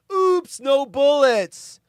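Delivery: high, loud, drawn-out villain quote; mocking movie taunt. Quoting the film villain's taunt.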